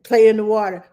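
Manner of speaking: mild mock inner voice; inner voice idea. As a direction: hear the idea land. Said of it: "my head said".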